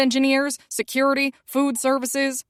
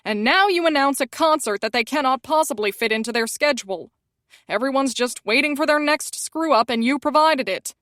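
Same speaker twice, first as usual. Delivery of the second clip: rising, louder panicked rant, climbing higher; 4 semitones higher, 4 dB louder than usual. Acted. Publicist ranting at her about the ruined tour, panicked and loud.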